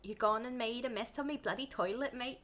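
put-on a would-be Cockney accent drifting Scottish; lightly done Scottish-sounding accent; Cockney try that sounds Scottish. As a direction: aim for Cockney, land near Scottish. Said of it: "Scot-, Scottish?".

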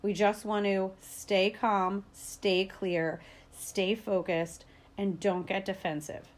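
slow, soft and steady; calm, level reassurance. Shown as a demonstration. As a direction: settle the voice down, slow and quiet. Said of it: "calm ways to talk".

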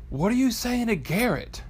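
high-pitched mock wifely questioning; imitated prying wife. Wife quizzes husband about his texting, high imitated voice. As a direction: impersonate a wife calling out a nosy question. Retold wife's question from bedroom.

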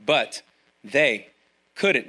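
slow, heavy key phrase; slow emphasis. Shown as a demonstration. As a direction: lay weight on but they couldn't, pausing between words. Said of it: "Key phrase".

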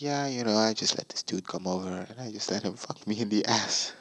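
softly tossed-off, imitating her casual admission; mock nonchalant confession; casual retelling. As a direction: say it like it's no big deal. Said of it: "like, such a casual way".

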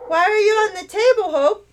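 put-on high, puzzled child's voice; a small girl asking her sister, wide-eyed; curious little girl. Little girl asking Hope on the table, high curious voice.

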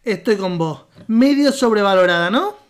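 put-on Argentine accent. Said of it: "cuando no estoy leyendo, hablo normal".

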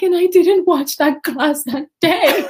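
high, loud, slow laughing wail of regret; mom's laughing lament. Retold or imitated. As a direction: wail it like a mom who missed everything. Mom regretting missing it.

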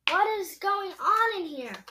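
high, loud outraged demand; shouting. A narrator's reading. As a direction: burst in demanding an explanation. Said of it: "shouted Eugenia".

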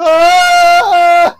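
loud, high startled huh; half-awake startled yelp. Retold or imitated. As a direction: jolt awake confused. Reenacts startled waking.

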